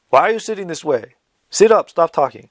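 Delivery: sharp, slightly high-pitched delivery. Retelling how he told kids on the mat to sit up: imitating a sharp command. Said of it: "that sharp as I just said it".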